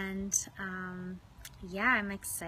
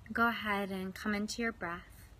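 unhurried meditation guide with long pauses; guided meditation. Real, not acted. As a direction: ease listeners into their breath, leaving space. Starts leading a guided meditation.

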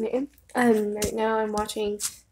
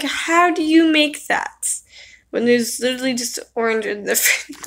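incredulous; 4 dB louder than usual. Retold or imitated. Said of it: "I'm just like".

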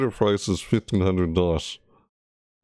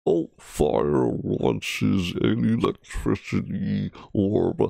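put-on reading voice; slower than usual. Shown as a demonstration. Streamer reading the arc generator text, slow mock-narrator voice. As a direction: savour each word like a dramatic item description. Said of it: "I was talking like this earlier".

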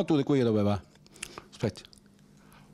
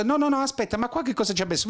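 imitated viewer; 11 semitones higher, faster than usual.

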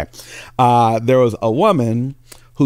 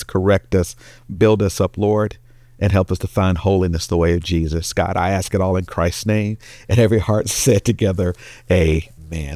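prayer; 2 semitones lower than usual. Acted. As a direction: pray over the congregation steadily. Leads a prayer.

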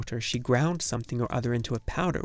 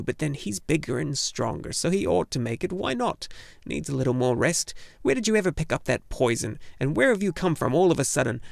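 put-on brusque old gnome woman; 3 semitones higher than usual. Urgle rattles off questions.

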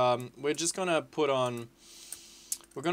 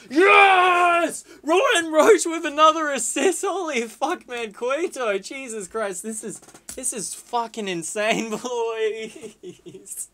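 huge high-pitched shout; ecstatic goal celebration; 10 semitones higher, 10 dB louder, slower than usual. Real, not acted. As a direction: scream it out, overjoyed.

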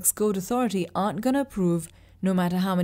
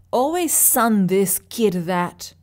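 angry hiss; 4 dB louder, slower than usual. Acted. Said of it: "I hissed".

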